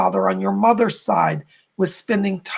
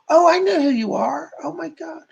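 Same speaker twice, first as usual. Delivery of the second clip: real surprise; 7 semitones higher than usual. Real, not acted. Medium suddenly recognises a spirit.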